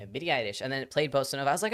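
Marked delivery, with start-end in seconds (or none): 0.1-0.6 put-on Japanese accent. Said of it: "you have to pronounce anything that's English in, like, an accent".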